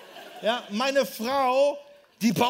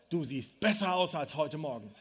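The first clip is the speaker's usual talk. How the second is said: low, amused aside with a laugh; chuckling suggestion; 6 semitones lower than usual. Shown as a demonstration. Preacher gives the congregation a joking line, amused. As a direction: lines it up with a chuckle, half joking. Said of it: "Sag mal bitte deinem Nachbarn".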